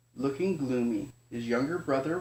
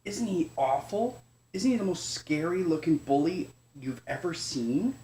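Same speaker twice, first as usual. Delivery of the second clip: scared cub; 3 semitones higher than usual. Acted. Chester fearfully asks mother.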